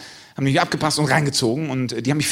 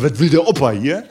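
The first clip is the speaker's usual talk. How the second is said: mock kid voice; 5 dB louder than usual. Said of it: "Die sagen dann immer".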